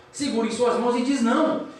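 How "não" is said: higher, slow retold protest; mock cry of protest. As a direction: draw out a pleading refusal, pitched up. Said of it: "ele começa a gritar no quarto".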